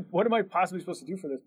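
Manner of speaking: fast, laughing mock despair; a hint of hammed-up overwhelm. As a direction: laugh through the hopeless question. Retelling despair at the workload.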